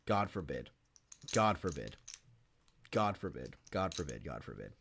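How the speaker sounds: a low muttered chant that sinks toward a whisper; low, soft repeated dread; fading superstitious mutter. Real, not acted. Dreading his fighter losing.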